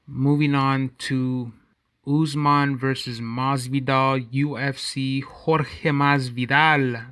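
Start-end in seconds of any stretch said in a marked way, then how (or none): 5.2-7.0 Jorge said slowly as HOR-heh, Spanish style; Spanish accent. Shown as a demonstration. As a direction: say Jorge Masvidal with Spanish sounds. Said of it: "I'm gonna say it with my Spanish accent".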